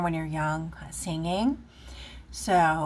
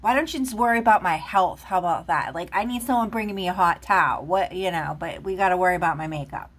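fast and louder, exasperated; a half-joking exasperated rant; indignant rant; 4 dB louder, faster than usual. Retold or imitated. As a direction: fire back at the critics, fed up. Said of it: "I'm like".

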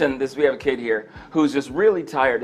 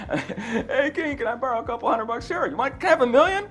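servant and king; 8 semitones higher than usual. Pretend. Mock servant begging king.

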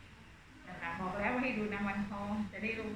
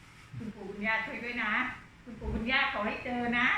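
mock teacher's prayer. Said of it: "เหมือนพวกครูๆทั้งหลายในเวลาที่หาเอกสารไม่เจอ".

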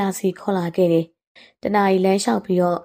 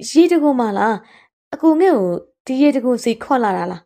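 put-on raised, eager girlish voice; delighted surprise; 4 semitones higher than usual. Girl to older companion on finding waterfall, delighted. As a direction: ask in happy amazement.

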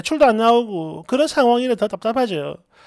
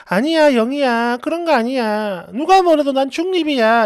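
gently placating reassurance; acted soothing. Narrator backs down to calm her friend, soothing. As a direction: try to calm an upset friend, lightly coaxing. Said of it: "이렇게 달래도 봤는데요".

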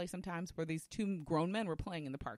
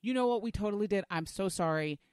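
raised, emphatic retold apology; quick apology; 4 semitones higher, 5 dB louder than usual. Retelling a man owning up to a mother, readily apologetic. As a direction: concede readily, starting high and loud.

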